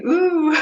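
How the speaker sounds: high excited "ooh" breaking into laughter. Retold or imitated. Retold excited reaction to dream.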